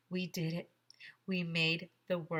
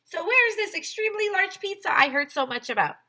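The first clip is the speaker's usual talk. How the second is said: much higher hammed-up English accent, louder; English lady accent; 13 semitones higher, 8 dB louder than usual. English record lady greets Mister Tony in an English accent. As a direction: play a chirpy English record keeper in an English accent.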